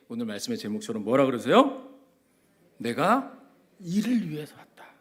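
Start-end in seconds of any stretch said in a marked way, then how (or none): 2.8-4.9 whisper. Acted. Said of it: "whispered quote".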